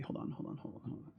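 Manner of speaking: whispering hold on; whispered. Real, not acted. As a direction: whisper it under your breath. Whispered to himself.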